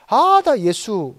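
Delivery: 유대 지도자를 살짝 흉내 내며 느리게 끄는 말투; a light mock of the scornful leaders, drawn out slowly; acting Jewish leaders. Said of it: "이거 저 연기하는 겁니다". (느릿하게 비꼬는 유대 지도자 흉내)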